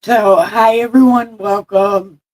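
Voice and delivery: put-on loud, high old lady greeting; a hint of a cranky old woman; old person voice. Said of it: "I'm pretending to be old".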